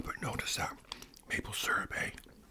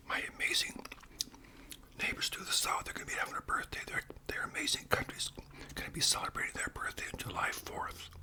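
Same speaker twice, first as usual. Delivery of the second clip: ASMR whisper; 9 semitones higher than usual. Acted. Host whispering about Canadian food to viewers, ASMR whisper. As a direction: whisper each word like sharing a treat.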